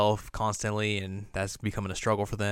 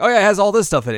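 much higher and louder, chirpy; Kiyomi voice; 11 semitones higher, 11 dB louder, much faster than usual. Retold or imitated. Recapping the anime, voicing Kiyomi cheerfully, high and loud. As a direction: pitch it way up as Kiyomi. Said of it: "Kiyomi's like".

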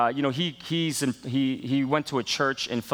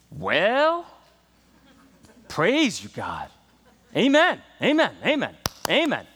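congregation calling out; 4 semitones higher, slower than usual. Retold or imitated. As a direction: shout the amens like an old churchgoer. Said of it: "breaking out and saying".

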